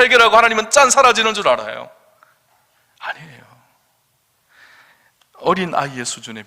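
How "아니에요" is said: whisper. Real, not acted. Preacher's hushed denial.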